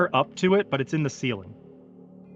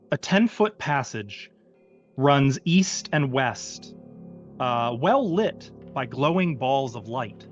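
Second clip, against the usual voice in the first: game master narration. Acted. Game master sets the scene.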